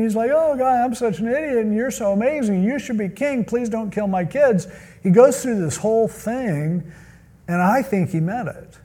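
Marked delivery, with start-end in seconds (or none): 0.3-4.7 high-pitched imitation of tearful begging; put-on weepy grovelling, raised pitch; mock crying plea. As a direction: plead as if weeping, hammed up. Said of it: "He's just crying".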